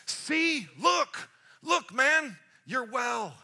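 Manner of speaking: high, loud, punched-out amazement; excited exclamation. Acted. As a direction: make him see it, word by word. Jesus exclaims at the healed man.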